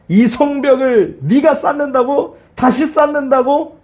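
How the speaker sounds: slow, scornful taunt; mocking sneer. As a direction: drag it out with a sneer. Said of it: "하면서 막 조롱하는 거예요". (느릿하게 비웃는 조롱)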